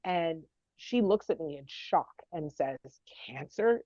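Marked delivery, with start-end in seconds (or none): 3.3-3.8 breathless shocked whisper of one word. Retold or imitated. Daughter whispering the word cancer in shock. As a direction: whisper it back in disbelief.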